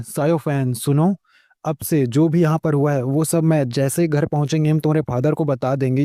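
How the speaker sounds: sweet as honey while warning him; lovingly. Acted. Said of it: "इतने प्यार से बोलता है".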